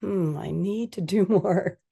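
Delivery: slow, mulling it over with a small laugh; musing repeat. Shown as a demonstration. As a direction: turn the words over slowly and chuckle. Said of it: "when people hear it back".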